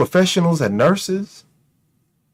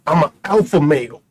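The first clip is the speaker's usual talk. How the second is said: mocking the alpha male; 3 semitones lower than usual. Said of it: "But I'm a bitch".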